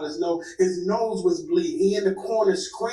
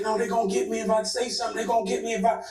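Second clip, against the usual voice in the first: fast, higher, panicked rambling; panicked rush; 5 semitones higher, much faster than usual. Retold or imitated. Actor panicking to her about being hunted, fast and fearful. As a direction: rush it like he's terrified. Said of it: "like, he's spazzing".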